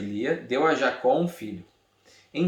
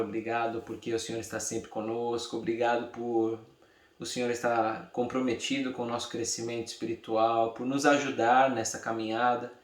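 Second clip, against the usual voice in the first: prayer. Real, not acted. Teacher thanking God and asking to understand the word, prayerful.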